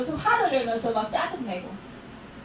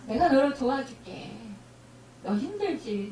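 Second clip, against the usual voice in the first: God's tender voice. Acted. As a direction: speak as a loving father soothing a hurt child. Voicing God comforting a believer.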